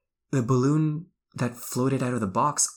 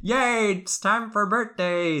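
put-on excited kid voice; 10 semitones higher, slower than usual. Kid's cheer voiced in story.

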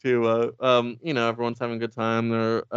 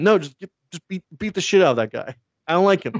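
higher, louder, insistent command; emphatic mock order; 5 semitones higher, 6 dB louder than usual. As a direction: order your sidekick impatiently. Batman ordering Robin to beat chauffeur.

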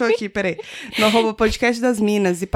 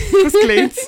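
laughing; 10 semitones higher, 6 dB louder, slower than usual. Real, not acted. Laughs mid-sentence.

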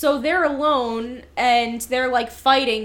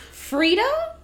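quoting a character; 11 semitones higher, 3 dB louder than usual. Retold or imitated. Quoting Wallace Shawn's line.

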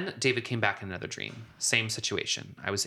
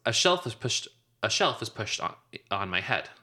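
put-on groaning ghost child. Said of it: "He groans".

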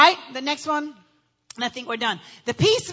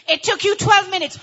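mock detective grilling; accusing interrogation; 3 semitones higher, 6 dB louder than usual. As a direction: demand the lost minutes. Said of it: "The detective".

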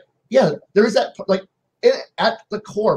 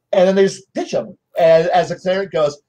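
usual speaking voice

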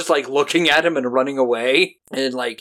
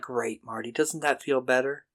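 smug conscience; 7 dB quieter than usual. Retold or imitated. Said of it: "his conscience is like".

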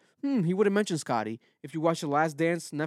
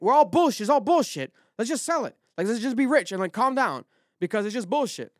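a hammed-up higher voice, ranting that it's all garbage; mock exasperated rant; 7 semitones higher than usual. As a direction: play the brother throwing up his hands, sell it all. Son's exasperated rant, retold in character.

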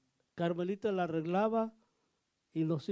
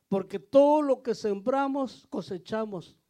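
emphatic preaching; 3 semitones higher, 8 dB louder than usual. Real, not acted. Preacher urges the church to raise their children in faith, loud and slow. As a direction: preach it out, hammer the point. Preacher drives home the lesson.

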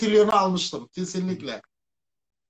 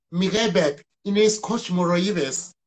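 backwards speech; much slower than usual. Shown as a demonstration. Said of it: "İki gün önce koli kestim bebeğim".

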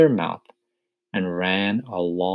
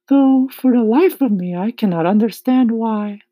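smiling ladybug; 8 dB louder than usual. A narrator's reading. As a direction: remark with an audible smile.

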